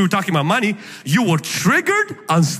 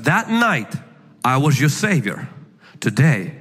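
dropping low and solemn on the last words; stern judge; 5 semitones lower than usual. Acted. Judge tells the boy he is now his judge, solemn low. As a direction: pronounce the verdict gravely. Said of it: "And the judge says".

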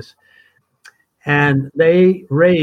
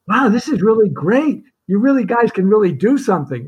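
mock excited; 6 semitones higher than usual. Callers' enthusiastic reaction quoted.

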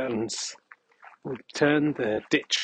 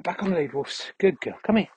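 dog praise; 5 semitones higher than usual. Real, not acted. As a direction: praise her like a pet. Calling the dog.

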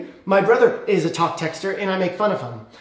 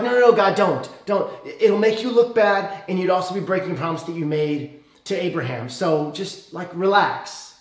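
pleading Moses. Retold or imitated. Moses pleads with God not to destroy the people, urgently. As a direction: beg God to stop, talking fast. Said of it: "And Moses is like".

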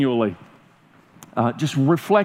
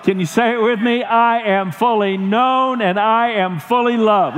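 put-on broad singsong kids theatre; 3 semitones higher than usual. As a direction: lift each phrase like a children's show. Building sermon call.

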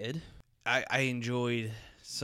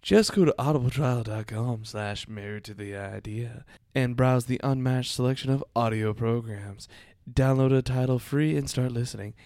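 put-on southern accent; 7 dB louder than usual. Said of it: "southern accent".

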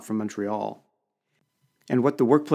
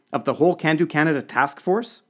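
high, loud, incredulous question; aghast disbelief; 6 semitones higher, 5 dB louder than usual. A narrator's reading. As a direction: push the pitch right up, appalled. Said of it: "gasped the trade commissioner".

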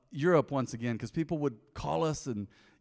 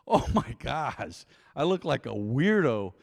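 slow, drawn-out mock horror; lightly dismayed, stretching the words out; 4 dB louder, slower than usual. Man reacts to his botched haircut, mock dismay.

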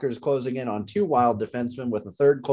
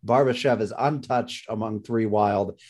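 worn-out, croaky delivery; hoarse voice. Real, not acted. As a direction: voice giving out, rough and strained. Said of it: "my voice is giving out on me".

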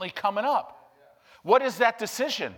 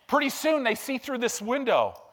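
ordinary talk

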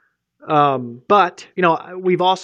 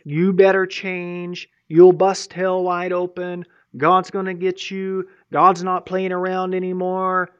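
legalistic threats; slower than usual. Retold or imitated. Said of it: "all of the threats and all this kind of stuff".

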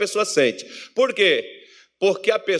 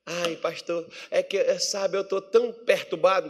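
softer, halting mock complaint to the pastor; troubled churchgoer; 3 semitones lower, 4 dB quieter than usual. Church member confessing to the pastor, mock troubled. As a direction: whimper lightly as a troubled member.

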